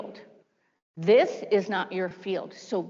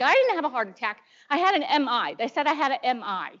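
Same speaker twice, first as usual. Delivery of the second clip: insistent protest; 4 semitones higher than usual. Retold or imitated. Retold quarrel with husband.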